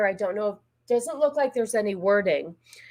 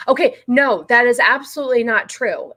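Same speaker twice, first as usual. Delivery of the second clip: louder, firm denial; loud rebuttal; 3 semitones higher, 7 dB louder than usual. Real, not acted. Arguing back at the video, louder and firm. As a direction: shut the claim down.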